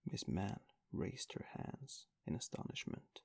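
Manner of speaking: ordinary delivery, nothing marked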